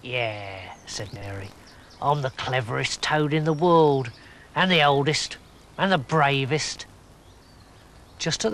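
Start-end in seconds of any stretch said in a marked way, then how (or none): 0.0-6.9 put-on old toad voice. Mary the toad voice.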